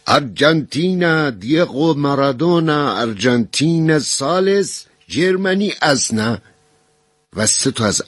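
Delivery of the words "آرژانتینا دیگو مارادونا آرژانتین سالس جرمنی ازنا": put-on high, slow, eager Arabic-accented announcing; excited prisoner reporting the result. A narrator's reading. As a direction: proudly spell out the final score. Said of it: "با ذوق و شوق گفت".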